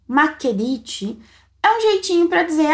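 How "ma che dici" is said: slow model question. Shown as a demonstration. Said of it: "Essa primeira parte".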